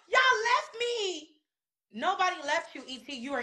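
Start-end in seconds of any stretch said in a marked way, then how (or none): 0.1-1.3 high, drawn-out wail of complaint; imitated complaint. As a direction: mimic her wailing accusation, stretched out slowly. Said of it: "She's like".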